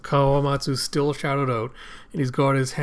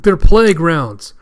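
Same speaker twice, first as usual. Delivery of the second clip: high, loud, drawn-out announcement; slow, emphatic acted cry of alarm; alarmed shout; 4 semitones higher, 10 dB louder, slower than usual. Alarmed shout about plague bullets.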